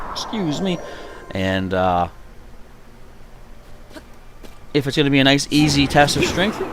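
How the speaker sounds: talking through hiccups; hiccuping mid-sentence. Real, not acted. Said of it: "I can't stop hiccuping".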